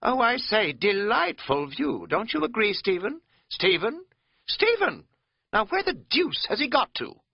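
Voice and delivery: high, loud plummy English toff calling out; hammed-up posh English gent looking for Stephen; posh English ponce accent. Katz mocking Bryson with a posh English accent. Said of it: "He put on a Ponce accent".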